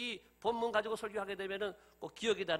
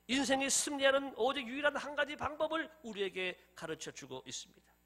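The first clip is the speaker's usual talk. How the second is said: normal talking voice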